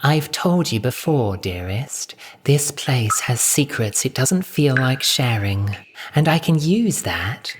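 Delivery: honeyed, half-whispered coaxing; sweet confiding hush; sweetly. Acted. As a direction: soothe the pet with secrets. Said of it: "more sweetly this time".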